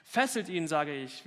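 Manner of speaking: loud, impatient witch order; repeated command. Acted. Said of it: "wiederholte die Hexe".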